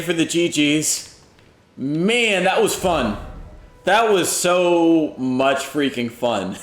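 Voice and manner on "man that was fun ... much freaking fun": very slow, drawn out delight; savoring. Real, not acted. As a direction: relish every word slowly. Savoring the win.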